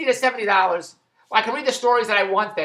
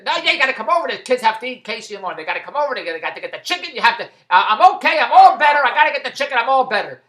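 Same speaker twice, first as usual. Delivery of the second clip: insistent nagging; 3 semitones higher, 7 dB louder than usual. Retold or imitated. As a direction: push him to come get the chicken, whiny and loud. Mother of the kids insisting by phone.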